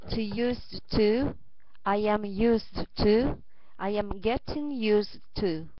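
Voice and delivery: careful list reading, each item set apart; vocabulary read-aloud. Acted. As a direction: read each word out to the class with pauses.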